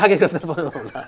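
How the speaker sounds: amused, half-laughing repeat. Real, not acted. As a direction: echo the phrase through a chuckle. Guest repeats the phrase, amused.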